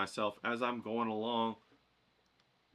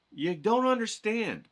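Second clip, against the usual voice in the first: mock bewilderment; 10 semitones higher, 7 dB louder, slower than usual. Acting student's bafflement.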